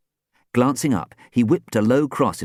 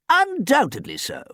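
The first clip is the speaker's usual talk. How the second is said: higher, pleased agreement; happy agreement. A narrator's reading. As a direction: agree with delight. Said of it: "Archie agreed happily".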